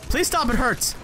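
high mock-pained whine; whiny plea. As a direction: whimper it up high like hurt. Pleading with enemy in game.

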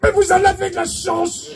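high, envious strained voice; voice behind door. Pretend. Man inside the toilet answering, strained high envy. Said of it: "une voix de l'autre côté".

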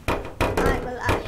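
drawn-out, loud declaration of being alive; slow loud call. Acted. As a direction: call it out slowly and loudly. Toy announces it's alive.

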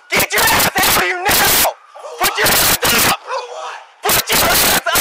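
barked police commands; shouted orders. Real, not acted. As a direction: yell the orders, no let-up. Officer yelling repeated commands.

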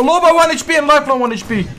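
quick urgent callout; combat callout. Real, not acted. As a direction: fire off the enemy status fast. Calling out enemy health mid-fight.

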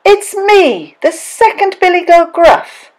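high-pitched goat voice; second goat's voice. A narrator's reading. Second billy goat answers the troll, high voice.

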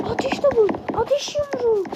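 high shouted spell names, one after another; spell shouts. Real, not acted. Gamer casting spells during a fight, high shouted spell names. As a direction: bark out attacks in a game character voice.

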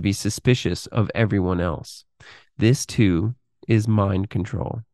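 measured, articulate reading of a written exposé; read-aloud narration. Acted. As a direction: read it out in deliberate phrases with pauses. Reads a written text aloud.

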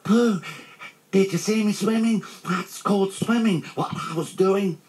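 high squealing little chatterer; excited squeak. A narrator's reading. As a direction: show off to everyone in a tiny squeak. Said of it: "squeaked Roo excitedly".

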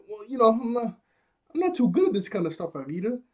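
timid excuse. Retold or imitated. Koby wriggling out of the order, meek and high.

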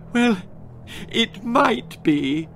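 high, slow snivel; snivelling. Acted. Daughter milking her parents, high slow snivel. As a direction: sniff it out pitifully. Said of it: "snivelled Gwendolen".

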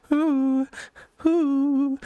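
high-pitched ooh squeal. Acted. Squealing in a comedy bit.

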